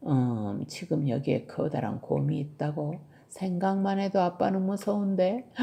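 lightly voiced dad playing along; musing father. Dad hears a huge bear is in the room, musing father.

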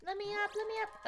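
fast, high frantic plea; frantic pleading. Real, not acted. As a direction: rush it out, high and urgent. Panicked in game.

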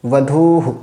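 "বধূহু" with long dhuu and short hu; visarga as hu. Shown as a demonstration. Teacher answers how long u takes visarga, demonstrating. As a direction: hold dhuu in "বধূহু", then a brief hu. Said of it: "তো উচ্চারণ কী হবে?".

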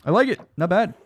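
genuinely impressed; excited praise. Real, not acted. Praising fan art.

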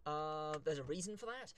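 soft mic-level voice, still clear; quiet but clear. Real, not acted. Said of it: "if I sound a bit quiet".

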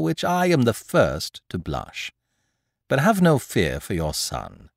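a hint of a courteous, mocking thief; lightly voiced thief bowing to the mother; lightly voiced Lupin. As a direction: apologize with polite irony.

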